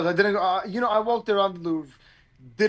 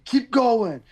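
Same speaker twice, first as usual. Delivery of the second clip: raised, slightly louder motivator quote; a music producer; 4 semitones higher, 3 dB louder than usual. Retold or imitated. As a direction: lightly imitate someone cheering people on. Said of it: "He's always saying that stuff".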